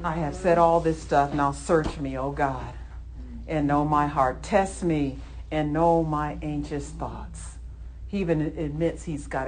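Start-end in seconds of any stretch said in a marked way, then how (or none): 0.0-7.6 humble prayer. Retold or imitated.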